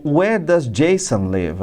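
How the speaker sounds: "Jason" as JAY-son, "live" with a short i; pronunciation model. Shown as a demonstration. Teacher modelling "Jason live" for students, slow and clear. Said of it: "Olha lá a pronúncia".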